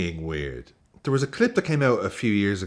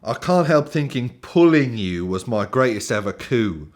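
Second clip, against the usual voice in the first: put-on British poem reading; generic British accent. Host reading a footballer's love poem, generic British accent. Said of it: "just gonna do generic British accent".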